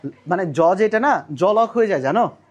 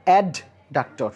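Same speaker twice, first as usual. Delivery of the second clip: slow spelled-out term; 3 semitones lower, much slower than usual. Shown as a demonstration. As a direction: draw the word out very slowly, syllable by syllable. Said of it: "লেখা রয়েছে একটা অ্যাবডাক্টর". (শব্দটা খুব ধীরে টেনে টেনে উচ্চারণ)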